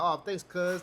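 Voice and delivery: lightly imitated rapper thanking a buddy; a rapper. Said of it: "they talk just like that".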